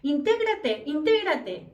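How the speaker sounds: high, fast imitation of people nagging her; a high, preachy imitation of well-meaning advisers; mock nagging advice. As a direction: put on the voice of everyone lecturing her. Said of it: "todo el mundo me decía".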